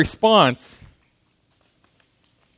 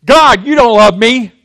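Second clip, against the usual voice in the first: high, loud, pleading complaint to God; a hint of anguished whining at God; complaining to God; 5 semitones higher, 7 dB louder than usual. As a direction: wail your grievance up at heaven. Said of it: "we wanna choose to say".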